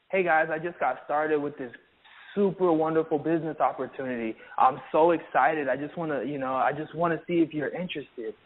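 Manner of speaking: low, dull, unexcited invite; unenthusiastic pitch. Shown as a demonstration. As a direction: sell it with no energy at all. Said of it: "there's no enthusiasm in your voice".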